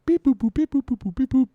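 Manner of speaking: high, loud machine beeps; robot beeping. Pretend. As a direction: chirp it like a little computer. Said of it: "I hit the randomizer button".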